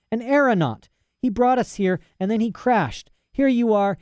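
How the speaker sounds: put-on high, eager young girl; high-voiced girl talking to her father; girl's voice Lyra. A narrator's reading. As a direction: rattle it off like a bold child. Lyra explaining, defiant.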